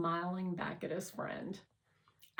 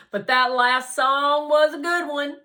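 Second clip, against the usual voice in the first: bright, loud and high, full of cheer; loud upbeat line; cheerful character voice; 8 semitones higher, 14 dB louder than usual. Acted. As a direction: boast happily about the song. Harlan chatty after dance.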